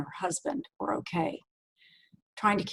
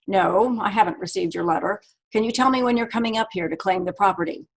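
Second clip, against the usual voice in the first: impatient. Acted. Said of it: "He sounded impatient".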